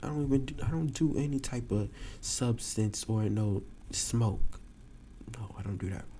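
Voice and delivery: scared to be blamed by the cop; nervous denial. Retold or imitated. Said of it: "I'm shaking".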